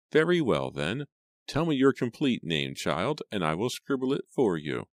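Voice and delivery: high, swooping fussy voice; old servant's see-sawing voice; brisk housekeeper. Acted. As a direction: take charge of the maid, pitch rising and falling. Housekeeper addresses the maid.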